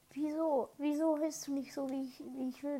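indignant. Pretend. Scolding a game character.

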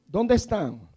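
"¿Dónde están?" called out loud to the congregation. Shown as a demonstration. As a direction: call it out for them to echo. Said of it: "Diga conmigo".

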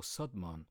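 "Sudman" with a plain "s" instead of "sh"; second valid pronunciation. Shown as a demonstration. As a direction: say "Sudman" with a long "ah" in "man", "Sud-mahn". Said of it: "These are two pronunciations".

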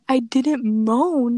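imitated indignant insistence; retold insistent denial. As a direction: draw out the denial emphatically. Retold denial to accusing classmates.

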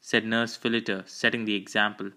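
ordinary delivery, nothing marked

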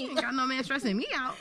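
laughing through a joke. Real, not acted. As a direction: chuckle it out. Joking about single life.

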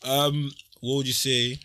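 slow, drawn-out crooner voice. Pretend. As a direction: croon it slowly like an R&B singer. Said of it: "That's his R&B voice too".

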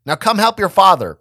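high, loud insistent call; mom yelling again. A narrator's reading. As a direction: call out firmly like an impatient mom. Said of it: "my mom yelled again".

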